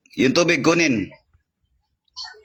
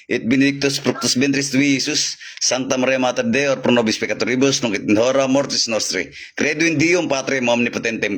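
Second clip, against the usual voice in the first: steady murmured liturgical prayer; Latin prayer recitation. Acted. Healer reciting Latin prayers over the patient, steady and murmured. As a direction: pray it through in one even flow.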